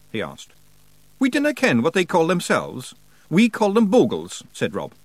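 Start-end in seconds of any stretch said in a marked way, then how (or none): 1.2-4.4 high, strong Scottish character voice; lively Scots warrior as guide; Rob Anybody, matter-of-fact Scots. Acted. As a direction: explain it in thick, pitched-up Scots.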